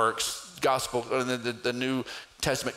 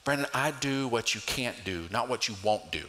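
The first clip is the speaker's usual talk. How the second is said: gentle; 2 semitones lower, 3 dB quieter than usual. Retold or imitated. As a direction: say it kindly, like a patient father. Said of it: "the Holy Spirit just so gently said".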